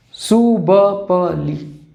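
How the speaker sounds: very slow, syllable-by-syllable mnemonic; drawn-out syllables. Shown as a demonstration. Teacher giving students a memory aid, very slowly. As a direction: stretch each syllable out separately.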